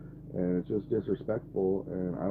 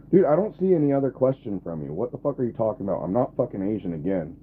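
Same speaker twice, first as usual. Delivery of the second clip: higher, louder, irritated snap at chat; exasperated; 3 semitones higher, 6 dB louder than usual. Real, not acted. Streamer fed up with chat, exasperated. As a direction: push the repeat with annoyance.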